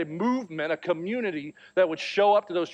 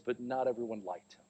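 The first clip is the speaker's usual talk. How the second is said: put-on softer, hushed retelling of the boy's words; son's quiet voice; 5 semitones lower, 8 dB quieter than usual. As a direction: drop to a quiet child's hush. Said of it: "he gets really quiet".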